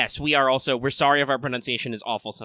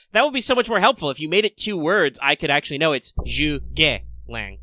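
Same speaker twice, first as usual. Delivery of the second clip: exasperated retort; 3 dB louder than usual. Retold or imitated. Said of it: "and I'm like".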